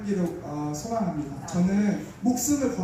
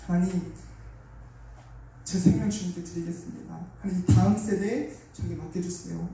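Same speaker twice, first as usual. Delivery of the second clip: raised, pleading prayer voice, pitch lifted; fervent prayer; 2 semitones higher than usual. Retold or imitated. Preacher recalls praying to God for the nation, earnest pleading prayer.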